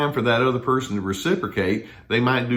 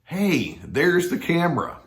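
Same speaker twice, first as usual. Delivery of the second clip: mock cheery; 8 semitones higher, slower than usual. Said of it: "These avoidant people might, uh, say".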